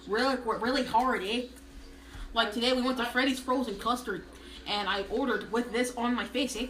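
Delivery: lightly voiced Minnesotan single gal; hint of a Minnesota character voice. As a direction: tell it as a chatty Minnesota gal. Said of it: "a single gal from Minnesota".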